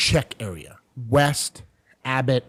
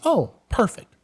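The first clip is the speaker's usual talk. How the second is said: put-on delighted older lady; 12 semitones higher, slower than usual. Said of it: "she's like".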